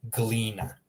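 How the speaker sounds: "Glina" as GLEE-nah, hard g; Croatian pronunciation. Shown as a demonstration. Teacher models Croatian for learners, "Glina" as GLEE-nah. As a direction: say "Glina" with g and l run together. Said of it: "That's how you pronounce Croatian".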